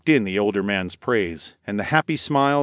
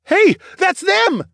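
high, loud shout of recognition; calling out; 7 dB louder, slower than usual. A narrator's reading. Townsperson spots the group and calls out. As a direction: call out excitedly from the crowd. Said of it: "someone called out".

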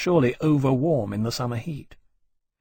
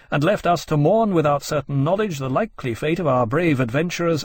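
higher, declaimed newspaper reading; grave news report; 3 semitones higher than usual. A narrator's reading. Newspaper tells readers of slaughter at the Cape, declamatory. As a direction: proclaim the disaster like a printed dispatch.

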